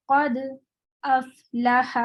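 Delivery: a short silent stop after قد, then افلح; light saktah. Shown as a demonstration. Teacher demonstrates a saktah on قد افلح. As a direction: stop briefly after قد without breathing. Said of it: "ہلکا سا سکتہ کر سکتے ہیں".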